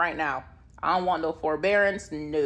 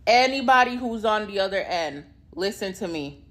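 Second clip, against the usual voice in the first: mock tearful plea; 2 semitones higher than usual. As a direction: plead to whoever listens on the line. Pleading to recorded line.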